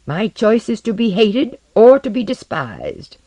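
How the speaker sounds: loud, high-pitched, bitter tirade; angry outburst. Acted. Osden rails at Tomiko about being hated, furious.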